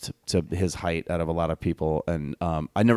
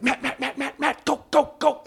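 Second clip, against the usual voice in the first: urgent hurrying. Retold or imitated. Assistant director hurrying him.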